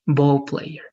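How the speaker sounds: "ball player" stressed on BALL; first-syllable stress. Shown as a demonstration. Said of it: "stress the first syllable".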